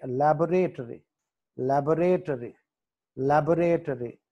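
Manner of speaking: లాబొరేటరీ with the stress from "bo"; teacher's లాబొరేటరీ, weighted after "la". Shown as a demonstration. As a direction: lean on the middle of లాబొరేటరీ. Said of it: "బి దగ్గర stress mark".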